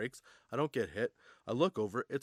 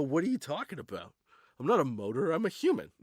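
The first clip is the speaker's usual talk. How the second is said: higher-pitched mock indignation; indignant protest; 4 semitones higher, 4 dB louder than usual. Cyclist objecting to being called a motor, indignant. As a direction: protest it upward, playing the baffled drunk. Retold drunken argument with cop.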